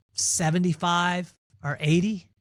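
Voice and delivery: slow, relaxed and easy, no rush; calm, unhurried answer. Retold or imitated. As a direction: lean back and let the number drop slowly. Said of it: "my pops very calmly".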